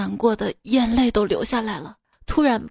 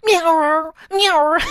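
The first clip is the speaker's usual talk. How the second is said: high drawn-out vendor call; street hawker's cry; 4 semitones higher, slower than usual. Retold or imitated. Street vendor selling outside the window, imitated hawker's call. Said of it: "听见外面街道上叫卖声".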